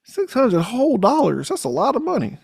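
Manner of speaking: impressed mock voice. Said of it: "he's like".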